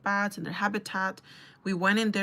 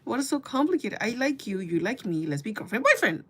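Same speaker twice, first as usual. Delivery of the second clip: exasperated plea; 2 semitones higher than usual. Retold or imitated. Acts out her exasperated inner plea.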